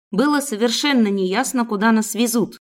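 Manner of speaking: usual speaking voice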